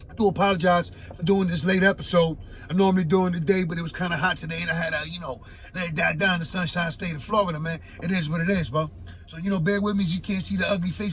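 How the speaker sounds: hoarse, raspy speaking voice. Real, not acted. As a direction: talk through a raspy throat. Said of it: "you can hear the raspy voice".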